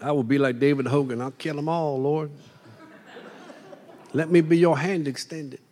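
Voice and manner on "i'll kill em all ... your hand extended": soft, half-laughing mock battle cry; laughing mock zeal. Preacher imagining himself like David Hogan, laughing softly. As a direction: play fierce but laugh through it.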